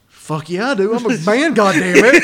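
high, loud triumphant yell with a laugh; laughing mock-macho shout; macho boast. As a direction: crow it like a proud he-man. Boasting self-quote.

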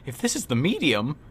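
rising to a loud, high mock cry; exasperated outburst. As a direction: blurt it out like your head's on fire. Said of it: "and I'm like".

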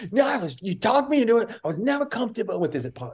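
high, strained complaining rant; imitated angry golfer. The speaker imitating Wallace blaming his caddy, high angry whine. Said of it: "and he goes".

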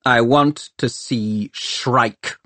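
curt, slow snap; snapping. Acted. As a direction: bite off each word. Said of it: "he snaps".

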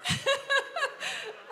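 high laugh trailing off; soft high laugh. Real, not acted. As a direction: let the laugh fade. Pastor laughing at story.

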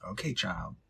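low, hushed judgmental aside; whispered aside. Real, not acted. Host reacts privately to letter writer, whispered aside. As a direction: drop to a whisper, unimpressed.

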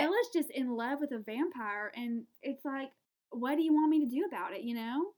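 put-on chatty Southern US accent; lightly played Southern accent. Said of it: "I do have a Southern accent sometimes".

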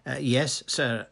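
keen junior clerk, voice lifted; eager. A narrator's reading. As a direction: answer your superior keenly. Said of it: "said Percy eagerly".

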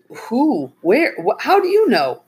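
startled ranger, pressing for answers; anxious questions. A narrator's reading. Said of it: "Ranger Greg asked anxiously".

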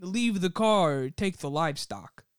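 understated mobster parody; mock mobster. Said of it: "I'll give you the mobster".

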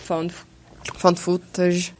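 "Found, found footage" choked out, stumbling; choking. Real, not acted. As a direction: cough out "found footage" with a catch. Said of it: "Engasguei pra falar found footage".

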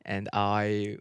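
quiet, halting British accent; half-hearted British, softly spoken. Shown as a demonstration. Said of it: "British accent real quick".

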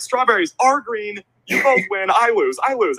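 high-pitched hasty concession, re-enacted; placating surrender. Host gives in to booing fans, high-pitched placating. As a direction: cave in to an angry crowd.

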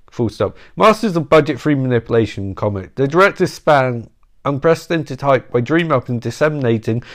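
flat dictation, reading punctuation aloud; dry reading voice. Acted. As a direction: read it out, saying each comma. Reads book with punctuation aloud.

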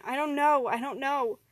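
high, loud cry of pain; pained scream. Acted. Struck man to his friend, high pained scream. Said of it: "he screamed out in pain".

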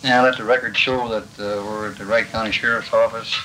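scratchy archival tape sound. Real, not acted. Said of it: "I got this recording from the archives".

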